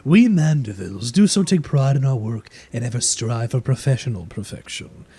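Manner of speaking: lightly voiced haughty aristocrat lady; a hint of a snooty noble matron; posh noble lady. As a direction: play the proud noblewoman, genteel and smug. NPC voice, game master.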